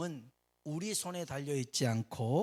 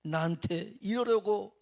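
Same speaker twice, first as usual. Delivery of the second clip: mock sob, then a higher, louder cry; hammed-up sobbing lament; 4 semitones higher, 5 dB louder, much slower than usual. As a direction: play the mourner wailing at the grave. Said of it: "하면서 계속 우는 거예요".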